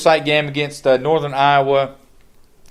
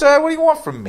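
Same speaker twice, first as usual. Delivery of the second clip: high, exasperated Italian nonna; Italian grandmother voice; 12 semitones higher, much faster than usual. Acted. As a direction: throw up your hands like a nonna. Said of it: "in that Italian grandmother voice".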